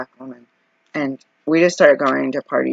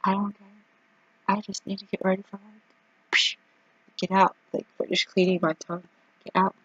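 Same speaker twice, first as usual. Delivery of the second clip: mock mother; 6 semitones higher, 4 dB quieter than usual. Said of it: "She goes".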